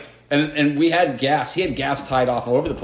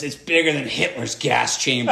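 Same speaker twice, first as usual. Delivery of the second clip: retold yell. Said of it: "Graham yells down".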